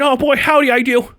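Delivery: hammed-up folksy delight; mock enthusiasm. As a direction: gush like an eager candidate. Acting over-keen jury candidate.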